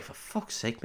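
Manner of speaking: whispered under the breath; a soldier whispering in frustration; whispered grumble. Retold or imitated. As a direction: hiss it to your mates. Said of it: "looking at their commander like".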